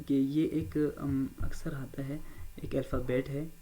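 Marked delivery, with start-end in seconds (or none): none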